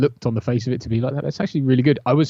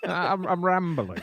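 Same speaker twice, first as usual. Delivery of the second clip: high, softer voice through laughter; laughing; 8 semitones higher, 4 dB quieter than usual. Real, not acted. Tired host owning up to co-host, laughing. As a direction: giggle helplessly through the admission.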